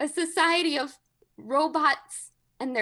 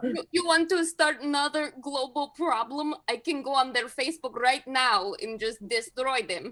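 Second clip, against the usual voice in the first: put-on Russian-accented voice. Playing a Kremlin leader boasting to an aide: Vladimir Putin voice. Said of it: "Vladimir Putin meets with his closest aides".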